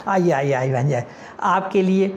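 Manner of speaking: a hint of street vendor; vendor calling out. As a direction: call customers to the stall.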